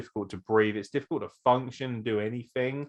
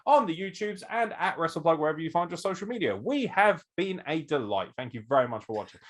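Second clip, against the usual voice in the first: mock podcast sign-off; 4 semitones higher than usual. Host pretending to end the show early, mock sign-off. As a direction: pretend outro patter, partly rushed.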